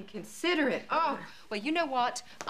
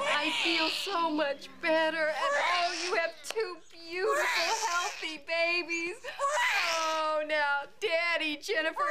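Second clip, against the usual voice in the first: happy crying; 5 semitones higher than usual. Acted. Crying with joy at babies.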